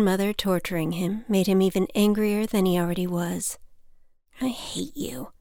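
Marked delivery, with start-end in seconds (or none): 4.4-5.3 voiceless, furious whisper; angry whisper. Acted. Boy whispering hatefully at his mother in the store. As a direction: spit it out under your breath.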